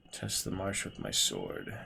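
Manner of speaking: ordinary talk, nothing marked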